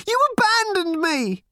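put-on high, loud girl's yell; a furious teen girl screaming at her mother; shouting teenage girl. A narrator's reading. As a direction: bark it at her mother in fury. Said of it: "shouted Random".

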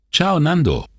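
high-pitched phone greeting; calling out. A narrator's reading. Boatman phoning his friend Nando, calling out. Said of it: "rief er".

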